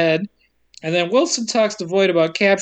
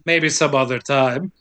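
lower, offhand retold shrug; shrugging; 4 semitones lower than usual. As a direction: say it with a mild verbal shrug. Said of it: "he shrugs and says".

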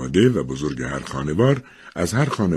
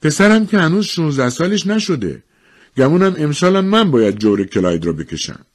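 a touch of regret in a raised voice; regretful; 10 semitones higher, 4 dB louder than usual. A narrator's reading. Wife standing in for her husband, mildly regretful. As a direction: admit it with mild regret. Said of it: "خانم دامبار با تأسف گفت".

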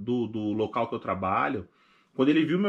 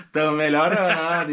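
mock halting speech; 4 semitones higher, 6 dB louder than usual. Repeats the mock phrase.

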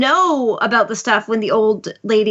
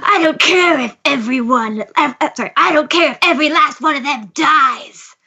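hammed-up villain, pitched up; 4 semitones higher than usual. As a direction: makeshift villain voice, slightly strained and theatrical. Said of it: "I don't even know what this voice is".

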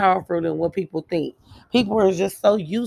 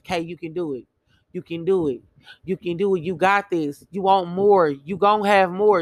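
self pep talk; 2 semitones lower than usual. Retold or imitated. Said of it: "I was telling myself".

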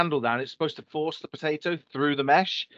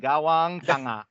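imitated Filipino accent; slower than usual. Shown as a demonstration. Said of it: "that's with the genuine Filipino accent".

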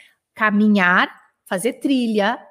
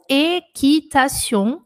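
slow spelled-out word; 3 semitones higher, much slower than usual. Shown as a demonstration. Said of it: "é de L apóstrofo".

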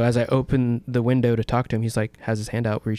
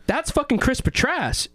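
much higher, slow, stunned disbelief; awed outburst; 13 semitones higher, slower than usual. Retold or imitated. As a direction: drag it out, floored. Retelling awe at second celebrity.

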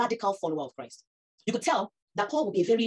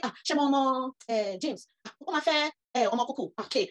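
higher, exclaiming auntie rattling off family names; impressed Nigerian parents name-dropping at an owambe; gossiping Nigerian parents; 7 semitones higher than usual. Retold or imitated. Speaker mimics Nigerian parents listing grand families, exclaiming. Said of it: "But they say".

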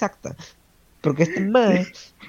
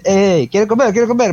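put-on drunk friend; 5 semitones higher than usual. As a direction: play the drunk buddy pushing food. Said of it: "y Miguel, bien a ver".

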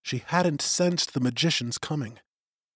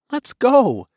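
higher, urgent woman's voice; eager young woman; 11 semitones higher, 7 dB louder than usual. A narrator's reading. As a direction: hurry him along. Suri pulls him along.

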